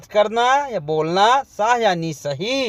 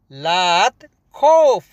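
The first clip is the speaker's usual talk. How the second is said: "लात खौफ" said slowly with a falling "खौफ"; slow, firm repeat; 3 dB louder, slower than usual. Shown as a demonstration. Teacher repeating "don't fear" slowly for students.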